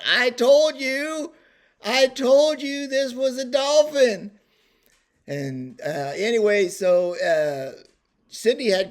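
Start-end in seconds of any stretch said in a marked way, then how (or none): 0.0-4.3 high, slow, drawn-out holler; yelling. Retold or imitated. Husband up on balcony to his wife, yelling I-told-you-so. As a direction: call it down loudly, stretching each word. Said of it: "and I'm yelling".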